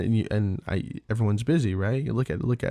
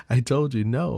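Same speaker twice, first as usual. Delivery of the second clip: put-on a raised, firm "no" to a kid; half-acted parental warning, pushed up louder; firm mock scolding; 4 semitones higher, 5 dB louder than usual. Dad to misbehaving kid, firm raised scolding.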